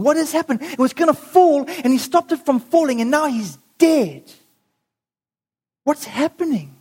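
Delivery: dramatized stunned dismay; acted shock. Stunned people react to the death.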